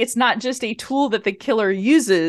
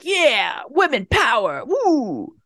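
raised, hammed-up victory whoop; mock cheer; 3 semitones higher, slower than usual. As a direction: cheer like you just won. Mock cheer after great scene.

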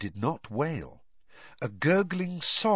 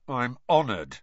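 dark. Acted. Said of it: "said Harry darkly".

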